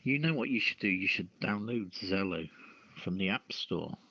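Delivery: ordinary talk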